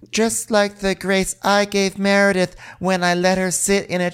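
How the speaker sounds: self-righteous, lightly voiced; mock Heather. Co-host imitating Heather defending herself to the table, smug. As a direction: preach about grace, mock-smug. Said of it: "And Heather goes".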